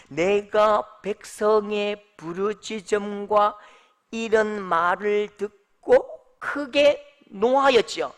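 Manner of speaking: slow, measured Bible reading; preacher reading scripture to the congregation, slow and solemn. Acted. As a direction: read the verse slowly and solemnly.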